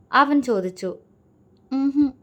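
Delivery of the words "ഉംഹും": a short hummed denial; humming no. A narrator's reading. Girl denying she is upset, a hummed no. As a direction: hum it closed-mouth, brushing it off. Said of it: "ഒന്നുമില്ല എന്ന് മൂളി".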